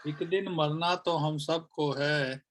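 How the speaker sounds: measured, deliberate shayari delivery; poem recitation. Acted. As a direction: recite each phrase with pauses between. (शायरी पढ़ने का ठहरा अंदाज़)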